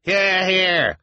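high, cheering call; agreeing call. A narrator's reading. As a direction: cheer him on. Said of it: "called several voices in agreement".

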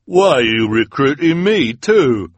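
a henchman yelping in protest; hook-handed man protesting. A narrator's reading. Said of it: "asked the hook-handed man".

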